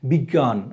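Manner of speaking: "বিজ্ঞান" as big-gan; teacher's model "বিজ্ঞান", g held across syllables; doubled g. Shown as a demonstration. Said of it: "আমরা গ আর গ পড়ি".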